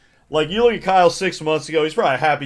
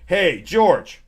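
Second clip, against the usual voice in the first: lightly voiced bossy board member; 2 semitones higher than usual. Junior board member ordering new hire George, lightly bossy. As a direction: toss the order off to the new guy.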